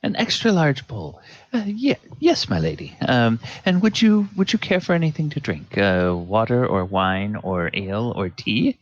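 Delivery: a hint of an eager, fussy waiter; lightly voiced servant listing desserts; eager server. Server eagerly offering puddings to the lady.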